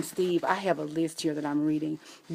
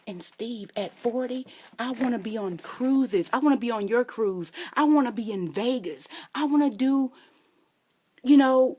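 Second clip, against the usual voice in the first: higher, louder, giddy; excited; 6 semitones higher, 4 dB louder than usual. Real, not acted. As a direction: gush about the fun life ahead. Excited about cruises and Vegas.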